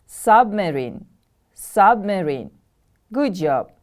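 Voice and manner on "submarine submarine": Submarine with SUB stressed, then falling; stress on first syllable. Shown as a demonstration. Teacher has pupils repeat the word, first-syllable stress. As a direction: hit "sub" in "Submarine", let the end fall. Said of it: "The stress is on the first syllable".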